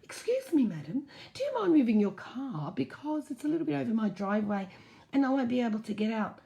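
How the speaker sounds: lightly voiced polite neighbour; polite request. Shown as a demonstration. Demonstrating how the neighbour should have asked, polite. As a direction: show the nice way to ask. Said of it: "It was just simple".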